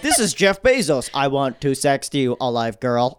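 deadpan chatbot romance; Jeff Bezos robot voice. Retold or imitated. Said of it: "sending voice notes like".

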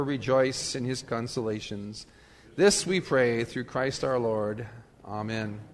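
liturgical prayer, each petition falling in pitch; formal prayer. Real, not acted. Pastor leads the congregation in prayer, formal liturgical prayer.

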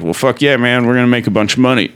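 excited dealer. Retold or imitated. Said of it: "he's like".

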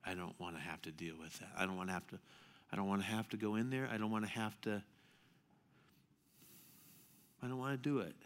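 hushed, reluctant sister pleading; soft retold Martha. Martha voiced softly in story.

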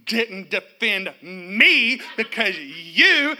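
slow, loud, tearful-sounding blame, punching "you"; mock upset accusation. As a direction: imitate a hurt, angry daughter. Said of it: "she's going".

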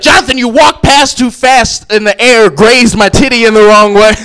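a touch of an annoyed scold, slow; mock wife scolding. Wife scolding husband for brushing her, mock annoyed. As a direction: snap at him like a sore wife. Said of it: "I got yelled at".

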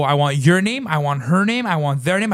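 forceful, listed demands; insistent retold outburst; retold screaming. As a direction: demand each name angrily. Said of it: "as I'm screaming".

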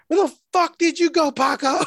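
high-pitched imitation of an upset woman; hammed-up high-voiced scolding; mock indignant demand. Retold woman demanding where he went.

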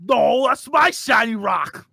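slow shouting ogre voice. Acted. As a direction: bellow it like a dumb ogre. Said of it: "I'll be like".

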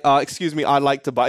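put-on polite young customer with an Australian accent. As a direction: ask in your broad Australian accent. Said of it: "in a full Australian accent".

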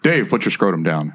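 a hint of a nerdy white dude. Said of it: "white dude voice".

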